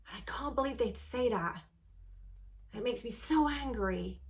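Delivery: demonstrating anger. Shown as a demonstration. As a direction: let the anger boil up as you speak. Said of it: "Or you can really go into it".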